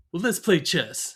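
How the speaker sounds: chuckling through the line; laughing while quoting; amused retold line; laughing quote. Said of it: "He goes".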